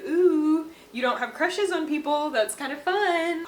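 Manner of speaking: teasing. Retold or imitated. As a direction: needle her like a little brother.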